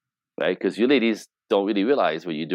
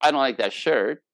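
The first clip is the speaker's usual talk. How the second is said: higher, indirect delivery; hinting; 4 semitones higher than usual. Retold or imitated. Woman hints at man about shirt, I DON'T LIKE THAT SHIRT raised. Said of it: "hinting at".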